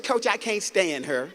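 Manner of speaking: slow, drawn-out quoted reply; imitating a player insisting on her grudge; player's answer repeated. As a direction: repeat it slowly for the coach, firmer.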